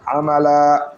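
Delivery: আমালা ending in a drawn-out লা, as when stopping; stretched lam. Shown as a demonstration. Teacher shows the pause on আমালা, stretching the লা. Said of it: "এই লামটাকে একটু টানবো".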